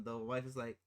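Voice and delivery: usual speaking voice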